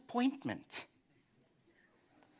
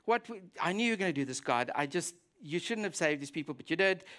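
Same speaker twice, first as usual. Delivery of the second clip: sulky grumble; 3 semitones lower, faster than usual. Retold or imitated. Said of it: "He's sulking".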